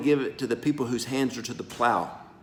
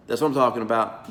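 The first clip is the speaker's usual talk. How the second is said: normal talking voice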